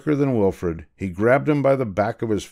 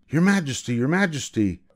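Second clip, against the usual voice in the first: raised, urgent call to the king; crying out; 5 semitones higher than usual. Acted. Calling up the stairs after the king, raised. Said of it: "cried out Sir Alaric".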